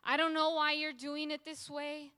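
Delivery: high, urgent protest; wrestling with God. Acted. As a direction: press God with the question. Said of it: "He goes from wrestling".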